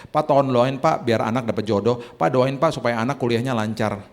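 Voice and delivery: begging for prayer. Retold or imitated. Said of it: "Kalau minta doa begini".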